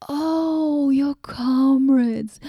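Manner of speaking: sudden realisation. Acted. Goddess realising the traveler's comrades died, surprised and drawn out. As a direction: let it dawn on you with a gasp. Remembering his dead comrades.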